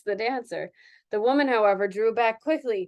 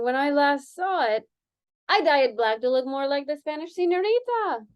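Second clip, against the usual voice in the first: put-on Spanish accent; 4 semitones higher than usual. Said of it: "the dancer said quickly".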